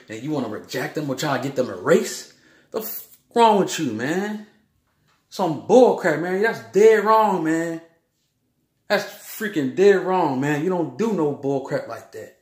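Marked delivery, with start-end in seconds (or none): 2.7-4.5 angry outburst. Real, not acted. Ranting at people who exclude others. 5.3-10.6 loud, slow, higher angry outburst. Real, not acted. Ranting against injustice.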